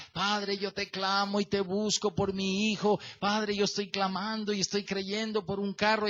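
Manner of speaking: run-on monotone prayer, lightly mimicked; long pleading prayer. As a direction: imitate someone praying on and on. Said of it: "hagan oraciones extensas, clámenme y digan".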